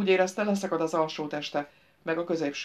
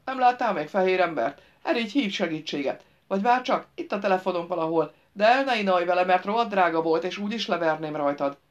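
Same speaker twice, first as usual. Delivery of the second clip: lightly voiced surly man, impatient; a hint of a bossy, threatening grouch; irritable trapped driver; 5 dB louder than usual.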